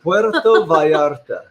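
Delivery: slow Spanish accent with a laugh in it; proudly exaggerated Spanish accent; showy Spanish accent. Shown as a demonstration. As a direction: show off your Spanish pronunciation, amused. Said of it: "Is that correct".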